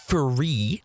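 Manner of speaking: THREE said with an F for the TH; mocked speech impediment. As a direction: mimic the impediment on THREE, F instead of TH. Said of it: "This is a speech impediment".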